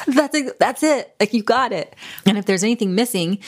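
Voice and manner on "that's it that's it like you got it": high-pitched, smiling burst of agreement; light up at finally being understood; delighted relief. Acted. Speaker telling listener they understood perfectly, delighted. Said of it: "with this biggest smile, maybe some tears".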